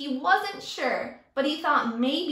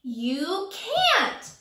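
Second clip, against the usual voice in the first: higher mock holler; 4 semitones higher than usual. Teacher as Sammy, hollering at Kevin. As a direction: call it out like a bully. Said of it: "Sammy hollered".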